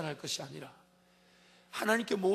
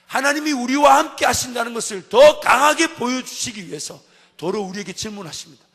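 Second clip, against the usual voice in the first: ordinary talk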